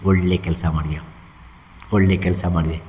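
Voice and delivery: low, composed reply; acted calm reassurance. Krishna answers the wailing hunter, low calm reassurance. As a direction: settle the wailer, pitched well down.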